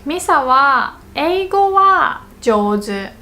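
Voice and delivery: slow, with "wa" stretched out; backhanded praise, leaning on "wa"; contrastive stress on wa. Acted. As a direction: linger on each "wa" before "jouzu". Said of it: "but that's all she's got".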